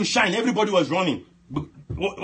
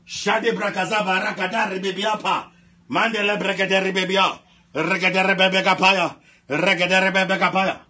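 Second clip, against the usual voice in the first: steady, chanting prayer syllables; praying in tongues; 5 semitones higher, 5 dB louder than usual. Real, not acted. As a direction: roll out the tongues in an insistent stream.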